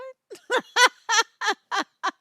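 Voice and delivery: high, loud burst of laughter. Real, not acted. Laughing at her own comeback story, loud. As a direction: cracks up loudly.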